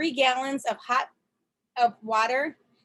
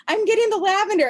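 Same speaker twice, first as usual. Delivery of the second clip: higher, louder hammed-up reply; husband answering from across the house; mock eager husband; 9 semitones higher, 7 dB louder than usual. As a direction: play the husband calling back loudly. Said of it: "he's like".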